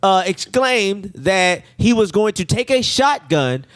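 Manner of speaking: slow, deliberate report-reading voice; lightly voiced official reading out a report. Nurse reading police report to patient, measured and official.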